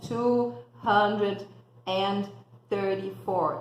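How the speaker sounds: "Two hundred", "and", "thirty-four" broken into separate pieces; choppy. Shown as a demonstration. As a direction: say it chopped up, the wrong way. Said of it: "não falo picadinho".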